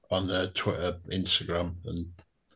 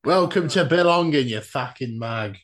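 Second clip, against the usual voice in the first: put-on southern accent. Co-host mockingly shows how the intro should sound, southern accent. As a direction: jokingly open the show in a mock southern accent. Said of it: "Does it need a southern accent".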